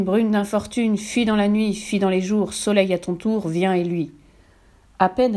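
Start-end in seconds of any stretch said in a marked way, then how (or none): 0.0-4.1 solemn, projected verse; resounding incantation. A narrator's reading. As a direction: intone each phrase as a magic command. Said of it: "Sa voix s'amplifia et résonna".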